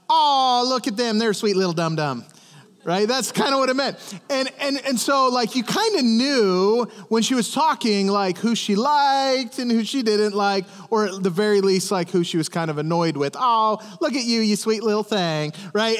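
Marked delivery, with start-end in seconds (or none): 0.1-2.2 condescending Southern sweetness. Retold or imitated. Preacher translating a Southern lady's meaning, mock-sweet twang. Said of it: "translated, that meant, like". 13.4-15.5 lightly imitated Southern lady; a touch of sugary down-South twang. Southern lady to someone she's annoyed with, mild sugary twang. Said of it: "that's kinda how she would talk".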